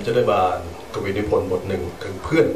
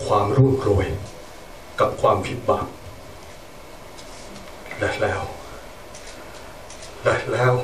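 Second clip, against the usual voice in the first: poem recital; 5 semitones higher than usual. Acted. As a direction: proclaim each line to the crowd. Declaims poem at monument.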